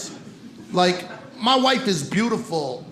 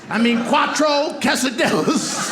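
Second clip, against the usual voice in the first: mock Spanish; 3 semitones higher, slower than usual. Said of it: "I'm like".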